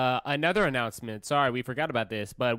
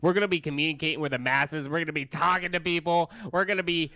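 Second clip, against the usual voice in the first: rising mock announcement; 6 semitones higher than usual. Mock chant rising in pitch.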